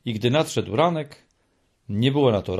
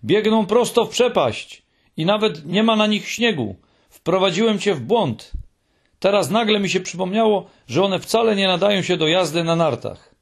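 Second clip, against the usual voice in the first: shouting; 7 semitones higher, 3 dB louder than usual. A narrator's reading. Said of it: "krzyknął Muminek".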